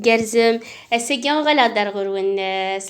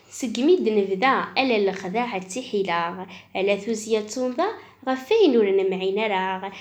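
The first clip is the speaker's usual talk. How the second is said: measured, lilting poetry reading; reading a poem aloud; poem recitation. Acted.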